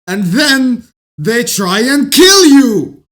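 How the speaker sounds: slow, loud, crying-out emphasis; shouting. Real, not acted. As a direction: drag it out and shout the last line. Climactic repeat of the refrain.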